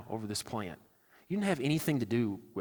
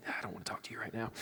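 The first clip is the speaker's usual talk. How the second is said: soft, fast, sulky brush-off; sulky mutter; 5 semitones lower, 10 dB quieter, faster than usual. Retold or imitated. Jonah sulking, refusing to talk to God, soft and fast. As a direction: mumble it like a pouting kid.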